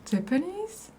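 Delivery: imitating Japanese woman. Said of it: "이러더라고요".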